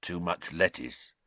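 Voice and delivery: gloomy. Acted. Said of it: "said Hagrid gloomily".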